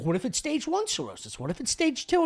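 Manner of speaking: mock panicked patient; anxious high questions. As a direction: pitch up high, rushing worry.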